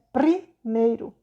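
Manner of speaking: "Primeiro" said very slowly, syllable by syllable; slow sounding out. Shown as a demonstration. Teacher repeats "Primeiro" slowly to show the answer. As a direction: drag out "Primeiro" so pupils hear each sound. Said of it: "tá vendo".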